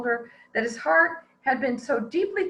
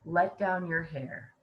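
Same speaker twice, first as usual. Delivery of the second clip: calling up the tower; 5 semitones lower, 5 dB quieter than usual. Acted. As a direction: call her name up to the window.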